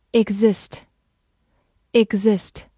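very slow, stretched 'Exist'; slow model reading. Shown as a demonstration. Teacher modelling 'Exist' slowly in review. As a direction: draw out 'Exist' syllable by syllable. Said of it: "复习一下今天学过的单词".

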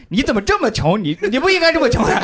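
laughing imitation of her scorn; laughing mock scorn. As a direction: giggle out the mock reproach. Mocking her reaction, laughing.

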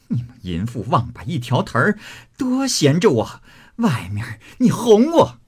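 angry accusation climbing high; furious cursing. Acted. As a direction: start controlled and build into a high-pitched tirade. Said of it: "骂道". (怒气冲冲地骂，越说越尖)

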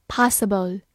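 "possible" with an American open "ah" in the first syllable; American pronunciation. Shown as a demonstration. Teacher showing learners the alternative, "possible" in American pronunciation. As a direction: say "possible" the American way, like "PAH-suh-bl". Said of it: "美式发音也可以读作".

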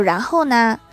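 mild mock irritation in a question; understated cross mother; slightly cross. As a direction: ask with a touch of annoyance, pitch kept down. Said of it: "郭大嫂有点生气".

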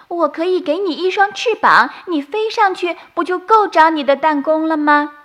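a bright sprite suggesting a clever trick; fairy voice. Acted. Leaf fairy offering Doudou wings, high sprite voice.

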